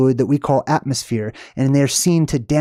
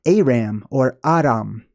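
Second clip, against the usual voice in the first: cowboy accent; 3 semitones lower than usual. Shown as a demonstration. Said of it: "like, a cowboy accent".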